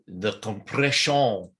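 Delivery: slow, drawn-out compression, borrowed voice; lightly voiced catchphrase, slow; imitating a colleague. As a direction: quote the catchphrase the way he says it. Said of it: "as Jeremy Alexander Newsom calls it".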